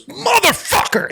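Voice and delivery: a big guy in a cinema yelling at the screen, imitated; imitating a scream. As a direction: bellow it slowly like a stranger at the screen. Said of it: "he just screams it at the screen".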